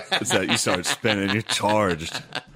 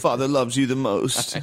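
drawn-out, lordly father voice; slow mock pompous father; 3 semitones higher, slower than usual. Friend mocking the favoured son, slow pompous father. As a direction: hand down the favour slowly.

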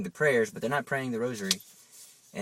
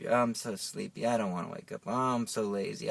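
a touch of lazy reluctance; mildly sleepy; 4 dB quieter than usual. Acted. Someone who doesn't want to wake up, mildly sleepy. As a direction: lightly act a sluggish waker. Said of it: "you wake up".

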